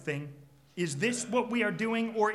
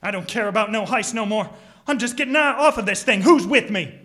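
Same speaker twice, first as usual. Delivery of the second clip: loud declaration; 3 semitones higher, 12 dB louder than usual. Acted. Crook quits loudly.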